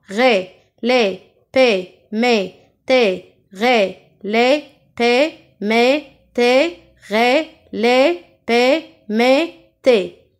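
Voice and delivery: "Ré, lé, pé, mé, té" evenly spaced with closed é; chant-like syllable drill, mouth barely open. Shown as a demonstration. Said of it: "Sans ouvrir la bouche". (syllabes détachées en é fermé)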